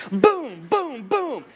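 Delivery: string of high, punched booms; mimed mallet blows. Retold or imitated. Preacher likening Christian life to prairie dog game, pounding booms. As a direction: whack out each boom separately. Acting out repeated mallet hits.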